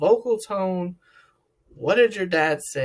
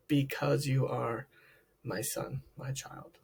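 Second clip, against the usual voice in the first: tender dad; 3 semitones lower, 3 dB quieter than usual. Acted. Loving dad voiced in talk.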